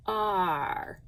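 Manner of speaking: "R." said as a long, open "ar"; open-mouthed sound demo. Shown as a demonstration. Teacher showing the class how the mouth opens, drawn-out sound demo. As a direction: open the mouth wide and hold "R." as "ar". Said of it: "My mouth is much more open".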